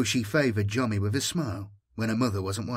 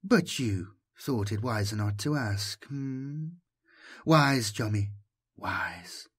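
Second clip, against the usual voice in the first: caressing voice; slower than usual. Acted. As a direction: coax him gently, almost cooing. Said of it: "How the voice fondled him".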